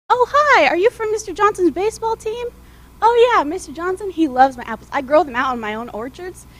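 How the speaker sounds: loud, cheerful stall owner greeting; hearty shopkeeper. Acted. Apple stand owner greets the coach, loud and cheerful. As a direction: boom a friendly hello across the stand.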